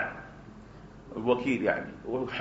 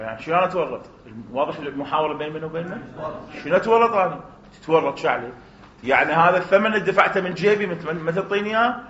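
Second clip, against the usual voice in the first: indignant protest; 2 semitones higher, 3 dB louder than usual. Acted. Agent confronts seller over loss.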